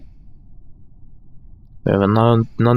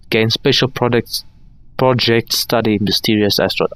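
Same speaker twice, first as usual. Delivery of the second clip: stuffy nose voice; blocked nose. Real, not acted. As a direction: speak through a blocked nose. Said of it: "a bit closed today".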